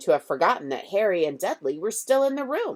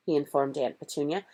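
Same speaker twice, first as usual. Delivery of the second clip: ordinary delivery, nothing marked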